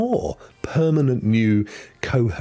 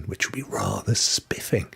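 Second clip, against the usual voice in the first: whisper; 2 semitones lower, 6 dB quieter than usual. Acted. Posh jokey word, whispered.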